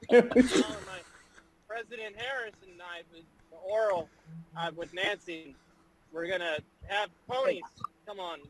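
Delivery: Joe Biden impression. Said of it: "do the voice again".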